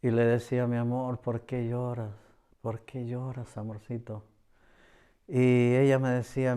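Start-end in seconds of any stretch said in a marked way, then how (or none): 0.7-4.2 soft and tender, dropping softer toward the end; tender consoling. Retold or imitated. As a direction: comfort a crying wife gently. Consoling his crying wife. (consolando con ternura a su esposa que llora)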